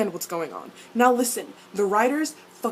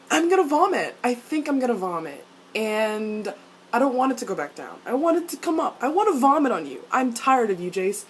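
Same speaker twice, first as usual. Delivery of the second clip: disgusted outburst; 3 semitones higher than usual. Acted. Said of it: "His face. Just like".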